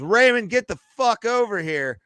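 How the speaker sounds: high-pitched mock yell; mom's yell. Mom yells for dad to get over to the Beamer, yelling. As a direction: call out like a mom summoning her husband. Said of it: "my mom just yells".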